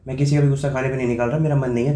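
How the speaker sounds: a put-on huff; mock anger. Faked anger in ignoring prank.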